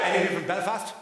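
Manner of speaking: loud, high call to the crowd. Real, not acted. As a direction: shout out to the back rows. Calling out to the crowd.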